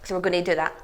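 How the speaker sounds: talking with tongue held out; holding tongue with fingers. Real, not acted. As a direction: speak while pulling your tongue. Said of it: "hold your tongue and bring it out".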